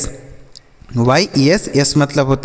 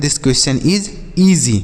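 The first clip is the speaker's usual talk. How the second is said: slow model sentence; much slower than usual. Shown as a demonstration. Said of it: "ऐसे बोलेंगे".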